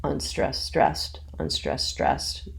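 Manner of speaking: "unstressed STRESSED" in a measured, alternating beat; iambic rhythm. Shown as a demonstration. Teacher renames short and long feet, iambic rhythm. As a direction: tick out "unstressed, stressed" in even pairs, weight on "stressed". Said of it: "you could think of it as".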